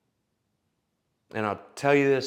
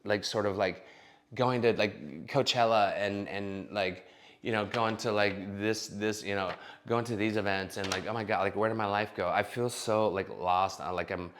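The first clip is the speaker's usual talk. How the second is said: lightly voiced valley girl, softer, lots of likes; a hint of a lost party girl, softer and trailing; mock vapid woman; 4 dB quieter than usual. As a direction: drift lost and self-pitying like a party girl. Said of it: "some women on there like".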